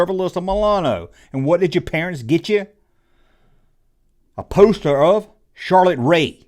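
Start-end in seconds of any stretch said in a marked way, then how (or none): 4.4-6.4 deadpan punchline. Acted. Punchline reveal.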